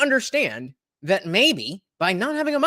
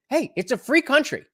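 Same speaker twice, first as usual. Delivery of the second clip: mock schoolkid retort; 8 semitones higher than usual. Quoting a kids' retort.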